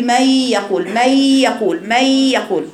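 "من يقول" repeated with no nasal hum; without ghunna. Shown as a demonstration. Teacher imitating a student's mistake on "من يقول". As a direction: drop the nasal sound in "من". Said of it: "ما جبتيش الغنة".

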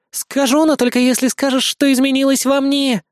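high, playful, pleased tease. Acted. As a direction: tease him, pleased with herself. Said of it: "довольно произнесла Хелен". (высоко, довольно и игриво)

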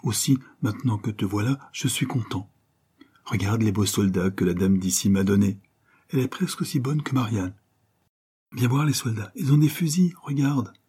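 lightly voiced eager little boy; a small boy proudly showing his toys. Petit garçon montre ses soldats à sa maman, voix légère d'enfant. Child Jeannot talks to mother.

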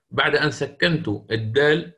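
ordinary delivery

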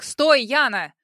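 loud call after her; heart-rending shout. A narrator's reading. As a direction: call her name in alarm. Lawyer chases running heroine.

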